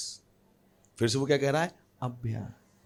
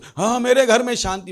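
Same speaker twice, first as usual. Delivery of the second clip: mock pleading prayer; 8 semitones higher, 7 dB louder than usual. Mocking people who pray.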